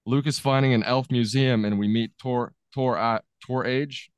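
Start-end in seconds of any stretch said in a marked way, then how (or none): 2.7-4.1 halting, slow attempt at "Tor Age"; unsure pronunciation. Real, not acted. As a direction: sound out "Tor Age" uncertainly. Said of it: "I don't know how to really".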